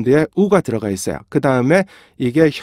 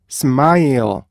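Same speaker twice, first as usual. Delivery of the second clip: slow, clipped smile with each part cut off; slow syllables; much slower than usual. Shown as a demonstration. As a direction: smile broken into four beats. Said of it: "이걸 좀 더 천천히 해볼까요".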